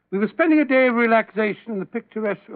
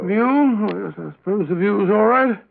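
half-hearted, grudging agreement; unenthusiastic. Acted. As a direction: agree without any enthusiasm. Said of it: "You don't sound very enthusiastic".

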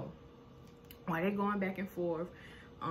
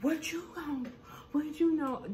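defiant challenge; 8 semitones higher than usual. Retold or imitated. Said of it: "And here go Malaysia".

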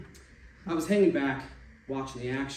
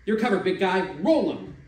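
snickering taunt; 5 semitones higher, 9 dB louder than usual. Acted. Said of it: "somebody snickered and said".

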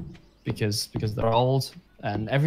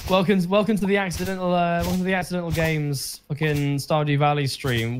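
announcer voice; 4 semitones higher than usual. Pretend. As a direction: announce it like a grand welcome. Reading the welcome note.

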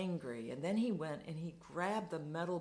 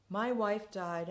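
louder, higher cry of grief; anguished despair; 4 semitones higher, 5 dB louder than usual. Retold or imitated. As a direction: repeat it as the grief breaks through. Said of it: "a spasm of despair".

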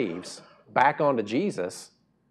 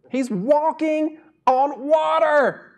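high, loud, slow disbelief; slow, pitched-up incredulity; exasperated emphasis; 5 dB louder, much slower than usual. Acted. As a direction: spell out the obvious in exasperation.

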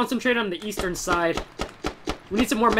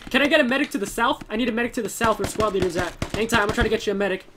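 urgent call for medic; 4 semitones higher than usual. Real, not acted. Squad leader calls for medic.

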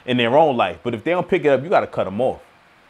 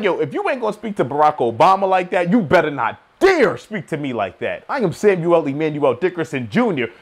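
proud, demanding retort; mild mock defiance; demanding respect. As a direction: put some respect on it. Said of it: "I'm like".

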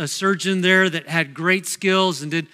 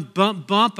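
steady double thump of a heart; imitated heartbeat. Preacher describing his healthy heart, imitated heartbeat. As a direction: mimic a normal heartbeat in words. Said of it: "I kinda hear it going bump, whoosh".

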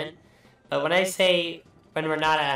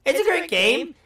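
sarcastic; 13 semitones higher, 5 dB louder than usual. Acted. Praise, then lists problems.

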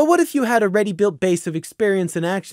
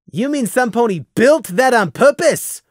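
high-pitched horrified disbelief; acted shocked question; aghast; 8 semitones higher, 3 dB louder than usual. A narrator's reading. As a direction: ask it appalled, pitch jumping up.

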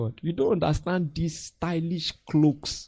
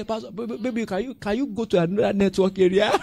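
high pleading church member voice; mock wheedling congregant; whiny member; 5 semitones higher, 3 dB louder, faster than usual. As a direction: beg the pastor sheepishly, half laughing. Mimicking church member begging pastor.

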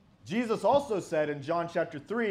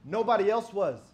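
raised, louder smug boasting voice; a louder mocking boast from a self-sure believer; mock Calvinist boast; 5 semitones higher, 8 dB louder than usual. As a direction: play the proud elect bragging. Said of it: "They put the emphasis saying".

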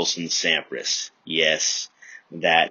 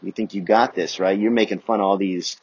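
mock sassy teacher; 3 semitones higher, 6 dB louder than usual. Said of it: "But then she says".

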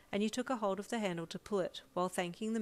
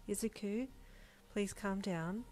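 soft-edged, concerned plea; mild, worried coaxing; gentle concern; 3 semitones higher, 3 dB quieter, slower than usual. Acted. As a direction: gently try to calm someone down. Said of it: "you said gently but with concern".

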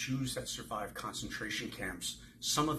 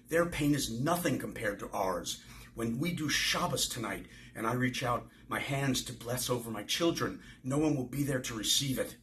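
angry protest; 3 semitones higher, 4 dB louder than usual. Acted. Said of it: "Oscar charge into the kitchen".

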